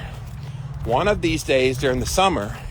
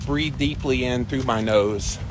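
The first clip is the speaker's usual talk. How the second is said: slow deep breathing pace; slower than usual. Shown as a demonstration. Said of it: "I will do this".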